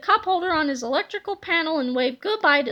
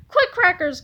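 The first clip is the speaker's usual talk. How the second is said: urgent call; 2 semitones higher, 4 dB louder than usual. Acted. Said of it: "called Harold".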